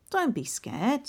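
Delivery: put-on a young boy comforting his sister; Hansel voice.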